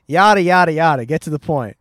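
impatient yada yada yada; dismissive. Shown as a demonstration. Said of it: "You go".

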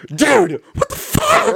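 squealing high imitation of a startled friend; mock outrage shooting way up in pitch; hammed-up, high shocked buddy voice; Andrew. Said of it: "he said it in the way".

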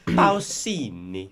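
the name said slowly with a full Italian pow-ZEE-nee; Italian-style name, slow and careful; Italian pronunciation. Shown as a demonstration. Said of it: "That was exceptional".

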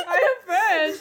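high, loud mock Frenchman; obvious French dude. Friend mimicking the French receptionist, exaggerated and high. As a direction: declare it like a hammed-up French dude. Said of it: "obvious French dude".

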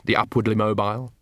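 usual speaking voice

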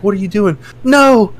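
acting out shock through laughter; laughing mock alarm. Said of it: "the other guy's like".

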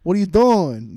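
mock shout. Guards calling out.

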